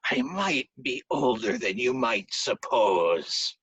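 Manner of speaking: low, slow, menacing Pooka line; ominous beast voice. Acted. Pooka warning Brian Boru, low slow menace. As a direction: say it slow and knowing.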